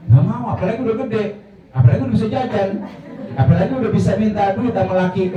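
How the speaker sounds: high-pitched, quick mock protest; playful refusal. Grown baby refusing to return to the womb, playful protest.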